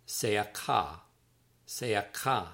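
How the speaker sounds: "Seakah" said as tseh-ah-KAH; careful Hebrew "Seakah", tseh-ah-KAH; Hebrew pronunciation. Shown as a demonstration. Author teaching readers a Hebrew word, careful tseh-ah-KAH. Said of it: "that's pronounced seakah".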